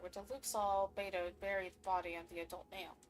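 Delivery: quiet, even reading of the case notes; reading game text. Acted. Streamer reading case notes to chat, even and quiet. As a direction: read the clue out steadily.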